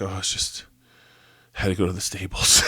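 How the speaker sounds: put-on breezy offhand girl voice; airy horse girl. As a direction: shrug it off, all innocent. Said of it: "she's like".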